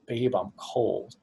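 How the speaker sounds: slow, gentle "I'm cold" with no command in it; just share the feeling, ask nothing; soft simple statement. Shown as a demonstration. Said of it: "when she goes".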